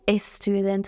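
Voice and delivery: استودنت with an extra e in front, es-tudent; wrong pronunciation. Shown as a demonstration. Teacher warning children against this, mispronounced with es. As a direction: add a vowel before the s of استودنت.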